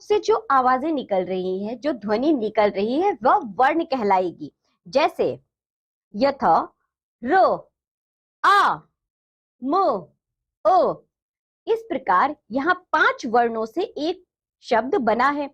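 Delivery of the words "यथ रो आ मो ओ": रो, आ, मो, ओ said one sound at a time with pauses; sounding out letters. Shown as a demonstration. Teacher sounding out राम for children, each sound apart. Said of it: "राम शब्द में रो की ध्वनि निकली".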